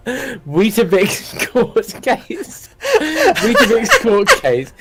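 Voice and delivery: laughing through the words, high and drawn out; cracking up. Real, not acted. Host finds an absurd cereal court case, cracking up. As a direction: fight giggles while reading it out. Cracks up at own search result.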